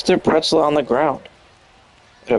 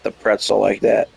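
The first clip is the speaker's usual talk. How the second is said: mock offended; 2 semitones lower than usual. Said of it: "He might be like".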